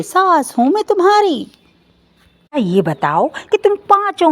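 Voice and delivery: mother-in-law asserting who's boss, angrily; scolding mother-in-law. Acted. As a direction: berate them, climbing as you go.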